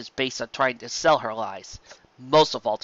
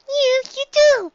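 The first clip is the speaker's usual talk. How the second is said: loud, high, slow filly exclaim; 10 dB louder, much slower than usual. A narrator's reading. Filly protesting to her mother, high and loud. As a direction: insist it with all her heart. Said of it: "she exclaimed".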